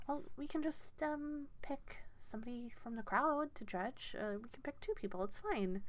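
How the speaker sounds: a hint of a flustered gnome organiser; gnomish woman.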